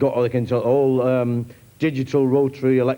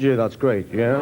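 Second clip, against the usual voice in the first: lothario deflated; 4 semitones lower, slower than usual. Acted. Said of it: "then he says".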